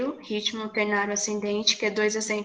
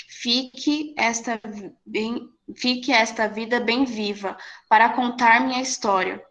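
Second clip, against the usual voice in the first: strong beat then two weak ones, recited; descending ternary rhythm. Shown as a demonstration. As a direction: hit the first of each three syllables. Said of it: "Fica assim". (recitação em ritmo ternário descendente)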